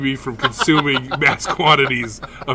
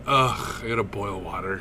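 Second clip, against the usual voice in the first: lazy groan; 3 semitones lower, 5 dB quieter than usual. Retold or imitated. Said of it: "then I'm like".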